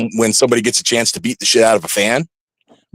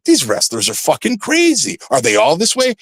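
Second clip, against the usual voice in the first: higher-pitched mock shouted fan; imitating a shocked fan; 5 semitones higher than usual. A fan hearing this podcast reacts in mock shouted disbelief. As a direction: ham up a fan's disbelief. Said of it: "any fan that wants to hear this and go".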